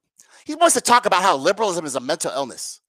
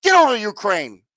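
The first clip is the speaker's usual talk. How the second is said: hammed-up Biden, barking louder and higher; mock Biden yell; 3 semitones higher, 4 dB louder than usual. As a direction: shout it like a parody of Joe Biden bossing his son. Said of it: "and Joe told him".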